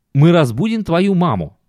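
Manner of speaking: lightly voiced complaining wife; a hint of a tired, whining wife; whiny wife voice. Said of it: "аргументы, которые она приводила".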